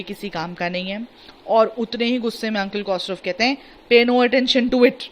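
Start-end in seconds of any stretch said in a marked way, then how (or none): 3.9-5.0 slow, louder mock roar. A teacher playing a roaring uncle, louder and slow. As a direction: boom it out like a temper. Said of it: "My uncle Khosrow roared।".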